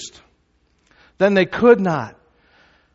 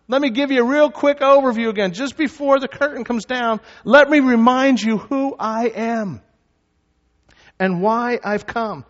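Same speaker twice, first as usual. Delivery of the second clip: high, raised voice calling to a crowd; shouted; 6 semitones higher than usual. Acted. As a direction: call it out high, drawing out the ends. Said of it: "But Jesus shouted".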